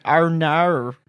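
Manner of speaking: exaggerated Australian "our nar"; drawn-out mock Australian; Australian accent. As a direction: mimic the TikTok Australian accent. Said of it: "Australian challenge on TikTok".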